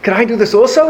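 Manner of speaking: lightly acted eager farmer; excited farmer. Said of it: "The farmer got all excited".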